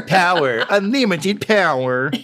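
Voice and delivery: high, sinister Emperor cackle-voice; Palpatine voice. Acted. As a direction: gloat like a Sith lord. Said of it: "with that voice".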